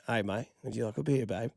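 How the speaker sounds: shaky-authentic Australian pickup line, slightly British; attempted Australian accent. Host pretending to flirt at a bar, mock Australian accent. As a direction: try a casual Australian accent. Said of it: "I think Australian accent's good".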